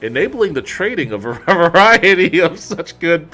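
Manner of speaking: lightly mock-solemn corporate read; a hint of stately announcer; formal letter reading. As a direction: read it like an official address. Reads corporate letter aloud.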